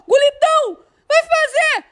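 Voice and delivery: high excited goal call; explosive goal commentary. Real, not acted. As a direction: yell as the striker shoots. (narração empolgada de gol)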